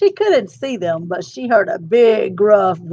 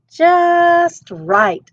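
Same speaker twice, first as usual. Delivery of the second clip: high, loud and pleased at last; delighted; 10 semitones higher, 6 dB louder than usual. Acted. Aluki trying boots, high and delighted. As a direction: Aluki finally finds boots that fit.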